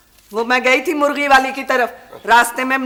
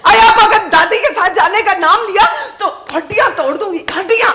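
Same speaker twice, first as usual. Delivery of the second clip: scolding threat with a laugh in it; threatening; 6 semitones higher than usual. Acted. Mother threatening her child, angry and half laughing.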